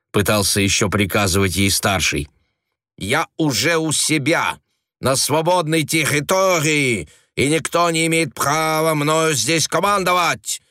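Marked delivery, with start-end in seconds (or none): 3.0-10.6 higher, defiant objection; defiant retort. A narrator's reading. Frenchwoman defying the senior agent, proud retort. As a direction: refuse him proudly. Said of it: "возразила Тереза Леоновна".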